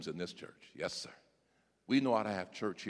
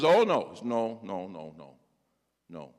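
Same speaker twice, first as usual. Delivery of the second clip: Peter protesting; 5 semitones lower than usual. Acted. Peter denies, fading away.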